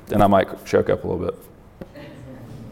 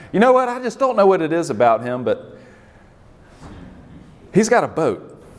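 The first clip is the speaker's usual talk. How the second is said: mock laughing admirer; 7 semitones higher than usual. Voicing a shallow friend.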